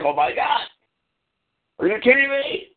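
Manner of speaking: high, put-on whiny voice; hammed-up whining impression; mock whiner. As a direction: imitate a whining complainer. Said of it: "everyone whining and crying".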